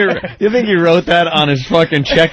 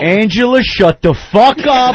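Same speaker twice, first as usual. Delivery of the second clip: mock husband snapping; 4 semitones higher than usual. Husband silencing wife Angela, higher mock snap. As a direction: shut the wife down, mock fed-up.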